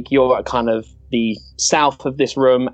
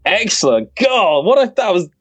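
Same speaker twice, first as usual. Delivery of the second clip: excited; 8 semitones higher, 3 dB louder than usual. Real, not acted. GM thrilled by a huge hit.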